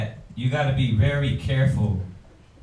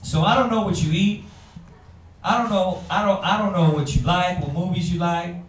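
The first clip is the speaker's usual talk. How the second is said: imitating a hurt wife; 4 semitones higher than usual. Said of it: "the first thing that would be in my mind".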